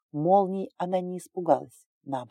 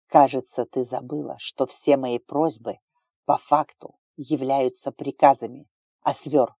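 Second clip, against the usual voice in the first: stern authority; 6 dB louder than usual. Acted. Ruler asserting authority.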